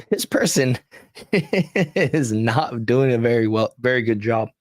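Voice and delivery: laughing. Real, not acted. Mocking the account's posts.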